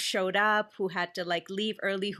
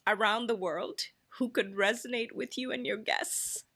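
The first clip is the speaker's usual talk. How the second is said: getting emotional; 3 semitones higher than usual. Real, not acted. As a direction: fight back tears as you read your mother's note. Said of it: "I'm getting emotional".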